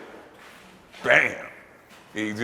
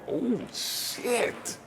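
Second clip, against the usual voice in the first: much higher, stunned half-voice; rattled rivals; 9 semitones higher, much slower than usual. Retold or imitated. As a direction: sound shaken and impressed. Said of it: "competitors going".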